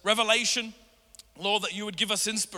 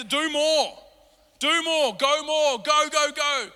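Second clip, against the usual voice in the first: mock frantic urging; 5 semitones higher, 5 dB louder, slower than usual. Mocking the world's frantic advice.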